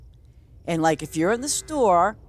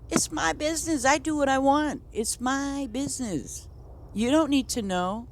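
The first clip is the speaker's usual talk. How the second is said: firm retort; 11 semitones higher than usual. Retold or imitated. Retelling her own firm reply.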